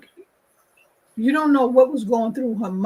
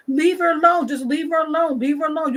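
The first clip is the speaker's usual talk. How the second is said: imitated warning; 4 semitones higher, faster than usual. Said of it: "you're saying to them".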